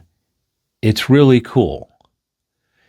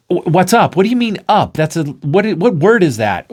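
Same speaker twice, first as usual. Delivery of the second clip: baffled friend; 7 semitones higher than usual. Acted.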